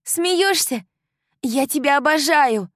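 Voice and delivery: put-on high, loud, gushing young woman; bubbly best friend bursting with joy; excited girlfriend. A narrator's reading. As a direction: euphoric girl talking nonstop. Kylie voice continues.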